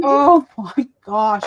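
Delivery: a husband unimpressed by the tears; exasperated husband. Retold or imitated. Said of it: "he's just like".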